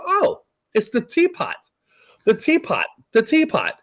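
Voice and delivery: high mock-amazed oh, then settling into the repeats; surprised realization. Retelling how he spotted the teapot shape, imitated amazement. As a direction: play it like a eureka that gets repeated. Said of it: "I go".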